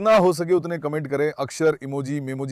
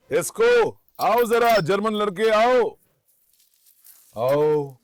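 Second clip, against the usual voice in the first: calling the dog; 5 semitones higher, much slower than usual. Real, not acted. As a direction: coax the dog over in a higher, brighter call. Calling dog Esko over.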